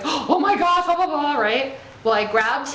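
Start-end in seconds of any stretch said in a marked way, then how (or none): 0.0-1.4 mock panic. Son panicking about getting stitches, high mock panic. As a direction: squeal it like a scared kid.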